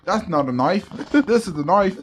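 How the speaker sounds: playful put-on Australian accent. Shown as a demonstration. Co-host proudly repeating the knife line, Australian accent. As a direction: do an amateur Aussie movie-hero line. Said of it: "I'm Australian".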